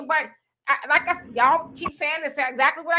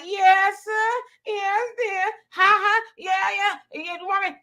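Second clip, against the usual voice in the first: mock meek wife; 4 semitones higher, slower than usual. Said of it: "Y'all want somebody".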